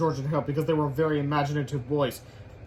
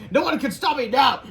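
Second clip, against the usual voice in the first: high, loud triumphant boast; hammed-up evil triumph; gloating villain; 9 semitones higher, 7 dB louder than usual. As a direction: proclaim victory as a supervillain.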